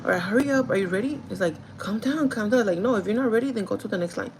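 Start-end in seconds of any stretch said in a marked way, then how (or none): 0.0-1.2 impatient retold hurrying, raised voice; mock mean. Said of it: "I started to be mean because". 1.8-2.6 higher, louder mock protest; imitating coworker's protest. Acted reply to her rushing. 2.8-4.3 mock mean. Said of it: "I started to be mean because".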